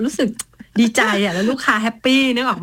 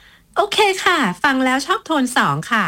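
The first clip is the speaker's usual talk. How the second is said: sweet satisfied client; 6 semitones higher than usual. Retold or imitated. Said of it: "แล้วจะบอกว่า".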